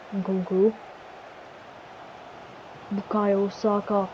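lively TV match commentary; mock football commentator calling the match; play-by-play commentary. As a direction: call the action like a broadcaster. Self-commentating a football game.

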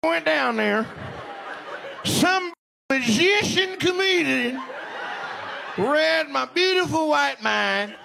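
laughing mock redneck tirade; ranting redneck. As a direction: play the rowdy guy griping, hammed up. Voicing the rowdy guy's rant.

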